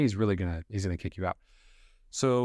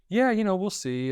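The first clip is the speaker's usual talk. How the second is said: forced casual; 10 semitones higher, slower than usual. Acted. Actor's forced casual reply.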